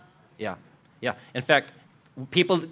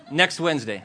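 laughing tease. Real, not acted. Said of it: "Wanna hear the story?".

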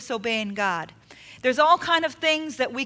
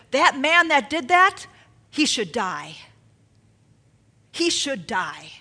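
raised, drawn-out indignation; indignant; 3 dB louder, slower than usual. Acted. Acting David's indignant verdict.

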